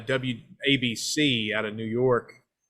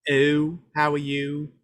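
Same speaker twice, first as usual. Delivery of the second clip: a hint of a Baltimore accent on "Oh"; 3 semitones higher, slower than usual. Shown as a demonstration. Guest lightly demonstrates the Baltimore accent he lacks. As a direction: lightly show how Baltimore folks bend "Oh". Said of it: "people in Baltimore screw up the O's".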